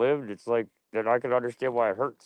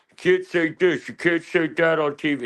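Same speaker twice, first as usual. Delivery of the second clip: mock scold; 7 semitones higher than usual. Mocking woke censors.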